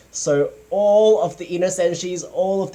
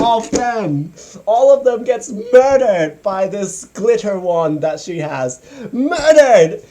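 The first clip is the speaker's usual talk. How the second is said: escalating comedy rant; 2 semitones higher, 5 dB louder than usual. Real, not acted. Escalating rant about killings.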